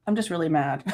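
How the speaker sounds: laughing. Real, not acted. Laughs at own anger.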